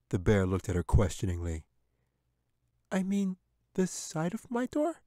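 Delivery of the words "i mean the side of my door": put-on much higher, pleading child voice; high young girl's voice; little girl. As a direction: reassure the bear like a frightened little girl. Katy tries to help.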